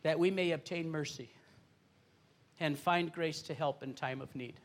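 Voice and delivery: hushed devotional reading. Acted. Reads scripture verse aloud.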